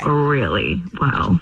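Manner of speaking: slow, loaded "really well"; suggestive emphasis. Real, not acted. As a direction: draw out "really well" with knowing weight. Coy confirming that they slept together.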